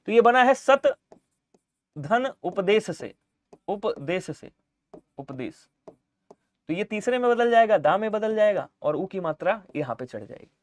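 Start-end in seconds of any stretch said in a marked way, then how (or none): 0.5-5.7 slow breakdown. Shown as a demonstration. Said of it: "जरा समझिएगा".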